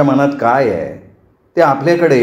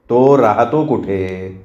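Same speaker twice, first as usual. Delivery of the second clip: each word slow, weight on तो; slow insistent repeat; 3 semitones lower, much slower than usual. Acted. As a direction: slowly press the question home a second time. Father repeats unanswered question. (तो राहतो कुठे, सावकाश ठासून)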